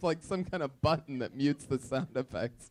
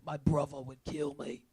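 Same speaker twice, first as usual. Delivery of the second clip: softer Cockney echo, "bruvver"; mock British accent; 7 dB quieter than usual. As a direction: quietly mimic the British V in "brother". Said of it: "You guys throw a V in brother".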